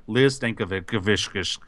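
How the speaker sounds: slow, drawn-out name said like a spell; slow ward-off name. Pretend. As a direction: say "Liz Stankovic" slowly to ward off ghosts. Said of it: "I'm like".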